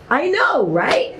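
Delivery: giddy and laughing; bursting with pleased laughter. Retold or imitated. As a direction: laugh through it, proud of herself. Proud reply, laughing.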